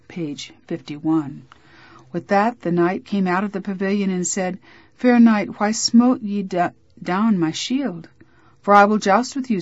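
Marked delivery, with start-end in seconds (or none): 4.9-8.1 stagey fake archaic declaiming. Knight challenges Griflet aloud. 8.6-9.6 stagey fake archaic declaiming. Griflet answers the challenge.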